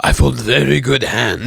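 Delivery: slow, hammed-up agitated poker player; mock yelly announcement, laughing after; Professional. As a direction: imitate a worked-up pro, drawn out. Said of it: "Professional was very yelly".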